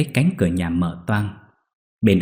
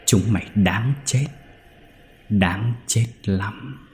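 savage gloating; slower than usual. Acted. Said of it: "cười lên đầy man dợ".

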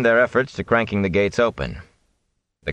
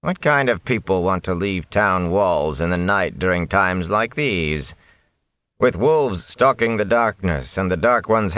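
suspicious. Acted. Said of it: "he sounded suspicious".

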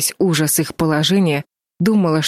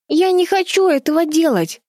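crying out in tears; 13 semitones higher than usual. A narrator's reading. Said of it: "в слезах крикнула Чарли".

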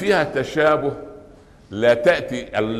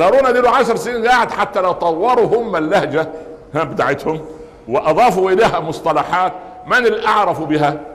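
eager retelling; 5 semitones higher than usual. Retold or imitated. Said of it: "قال".

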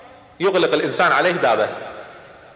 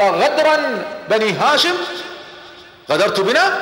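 alarmed accusation; 7 semitones higher, slower than usual. Acted. Abu Sufyan accuses Abbas of betrayal.

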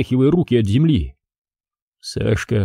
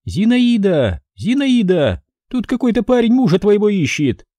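hollering for the neighbour; booming call; 10 semitones higher than usual. A narrator's reading. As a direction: call out Zinaida's name for the whole house. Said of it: "зычно крикнула".

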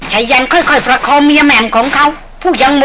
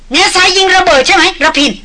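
eager joyful question; 6 semitones higher than usual. A narrator's reading. Chet asks the hunter about the blast, higher with eager joy. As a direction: ask fast, almost trembling with gladness. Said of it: "พูดเร็วปรือ หางเสียงสั่นไปด้วยความยินดี".

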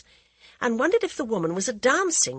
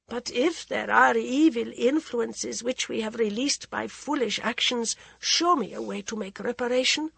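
a queen's anxious plea, a little higher; pleading queen; 4 semitones higher than usual. Acted. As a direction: beg the holy woman for a remedy. Maharani pleads with ascetic.

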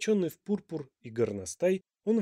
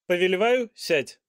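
royal command; 5 semitones higher, 8 dB louder than usual. A narrator's reading. King's voice.

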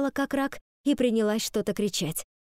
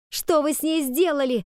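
higher, louder furious cry; shouted demand; 7 semitones higher, 4 dB louder than usual. A narrator's reading. Ivy shouting at the fox about her sister, higher and louder. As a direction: scream the question at her. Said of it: "крикнула я".

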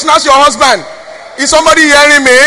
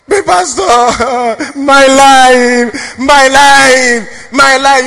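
a lightly voiced woman pleading with the pastor; mock pleading woman; much slower than usual. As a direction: plead coyly with a little laugh. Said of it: "counselee woman voiced in story".

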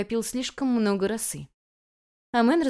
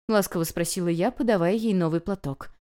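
plain reading voice

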